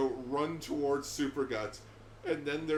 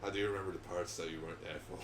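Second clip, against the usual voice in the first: quoting Team Four Star; 7 semitones lower, 6 dB quieter, much faster than usual. Retold or imitated. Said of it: "To quote Team Four Star".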